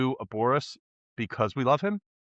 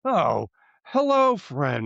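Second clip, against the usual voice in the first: Boris greeting; much slower than usual. Retold or imitated. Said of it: "he's like".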